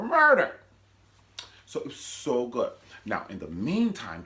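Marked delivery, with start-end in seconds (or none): 0.0-0.5 dramatic title flourish. Retold or imitated. Show title punchline.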